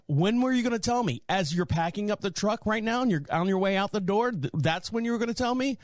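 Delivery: indignant inner thought. Retold or imitated. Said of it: "thinking to myself".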